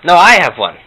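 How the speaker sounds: put-on high, loud, confused old grandma; Jewish grandma Herta. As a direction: play a hard-of-hearing Jewish bubbe. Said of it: "some Morty and Herta imitations".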